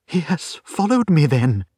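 frightened client's dawning realisation; alarmed realisation. Acted. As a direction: ask it in startled dismay. Client shocked at being followed.

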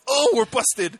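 loud, high-pitched cry of being caught; mock busted exclamation. Voicing friend's exclamation on being seen.

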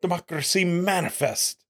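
lightly imitated British orator; mock-refined British delivery; a touch of pompous British; sophisticated British accent. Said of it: "he has that British accent".

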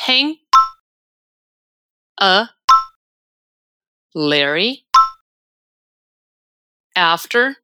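single words parted by long pauses. Shown as a demonstration. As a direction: give each word alone for learners to echo. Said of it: "Primeiro, palavra por palavra".

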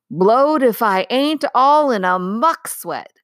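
breathless, whispered puff; puffing giant. A narrator's reading. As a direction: gasp it out, winded. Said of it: "puffing like the largest railway engine".

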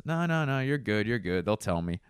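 high relaxed waving off; no big deal; breezy driver. Retold or imitated. Bus driver waving off concern, high and breezy. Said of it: "And he goes".

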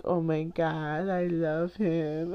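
slow, drawn-out swoon; dreamy, lingering fan gush; gushing adoration. Retold or imitated. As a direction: stretch the words out adoringly. Fan swooning over Sam's entrance.

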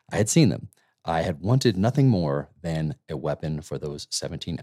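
measured, low audiobook-style reading; reading aloud. Real, not acted. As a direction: read a memoir passage aloud, evenly paced. Reads book passage aloud.

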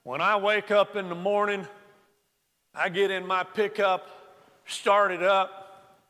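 a lightly put-on Texas drawl, unhurried and proud. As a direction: stretch it out like a boastful Texas farmer. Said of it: "big old Texas drawl".

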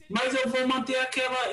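usual speaking voice

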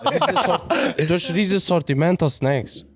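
talking through a laugh. Real, not acted. Laughing while describing the snack range.

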